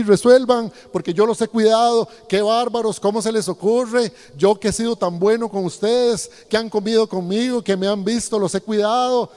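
mock exasperated rant. Pastor mocks his own imagined rant.

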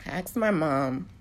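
slow, careful words while holding back crying; slow down and steady yourself to get it out; steadied after tears. Real, not acted. Retelling asking her mom, forcing herself steady. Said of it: "I'm trying not to cry".

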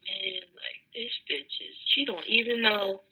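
hushed, near-whispered mock inner voice; softly voiced private thoughts; muttered inner thought. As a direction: half-whisper it like thinking to yourself.

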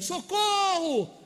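high, drawn-out cry of socorro; shout for help. Retold or imitated. A neighbour screaming for help, high drawn-out cry. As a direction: yell it like your life is at risk. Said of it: "alguém que tá gritando".

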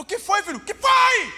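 a mother calling to her upset son, worried; mother's worried call. Retold or imitated.

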